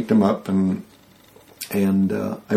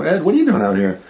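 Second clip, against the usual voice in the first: surprised; 6 semitones higher than usual. Retold or imitated. Calling out to security guard.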